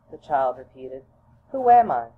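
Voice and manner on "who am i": put-on high, louder childlike question; child's question. Child asks mother who she is, high and loud. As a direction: ask it high like a small child.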